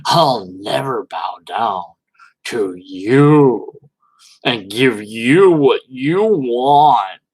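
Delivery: hammed-up lofty scorn, slowly drawn out; mock haughty believer. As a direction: parody a smug believer looking down. Mocking the believer's attitude.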